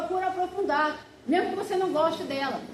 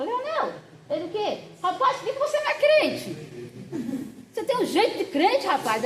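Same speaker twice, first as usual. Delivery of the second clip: playful teasing; 4 semitones higher than usual. Retold or imitated. Teasing friend about being a believer.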